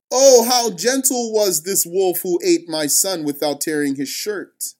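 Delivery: a touch of bitter sarcasm, lightly voiced; mock the wolf's gentleness, understated; sarcastic. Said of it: "he said sarcastically".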